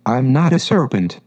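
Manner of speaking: a touch of indignation, lightly voiced; protest, offended but restrained; indignant. Alice denying she is a serpent, mildly indignant. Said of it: "said Alice indignantly".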